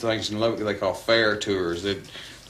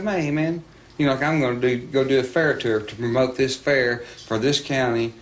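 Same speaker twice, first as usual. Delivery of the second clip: cocky protest; 3 semitones higher, 3 dB louder than usual. Retold or imitated. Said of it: "he had that kind of attitude".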